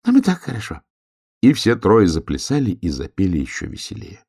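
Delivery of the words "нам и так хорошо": higher contented little voice; happy just as it is; tiniest sun hare. A narrator's reading. Smallest sun hare, high and content. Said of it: "сказал самый маленький солнечный заяц".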